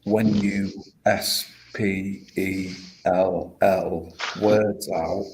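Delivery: S P E L L spelled out slowly, letter by letter. Shown as a demonstration. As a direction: spell out S P E L L one letter at a time. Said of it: "you are in turn casting a spell".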